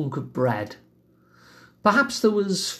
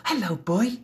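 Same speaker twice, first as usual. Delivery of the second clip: much higher, sing-song cooing to a dog; dog owner motherese; 6 semitones higher than usual. Shown as a demonstration. Suggesting the listener greet an imaginary dog in high, tuneful motherese. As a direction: bend down and coo at an imaginary dog. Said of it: "higher pitched tuneful way that dog owners use".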